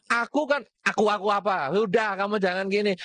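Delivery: high, insistent spouse in a row; mock domestic quarrel. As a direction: cut your partner off mid-fight. Acted quarrel between spouses.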